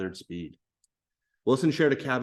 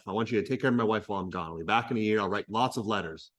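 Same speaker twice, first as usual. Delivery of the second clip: quick paraphrase; 2 semitones lower, faster than usual. Retold or imitated. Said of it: "So he's worried about his wife".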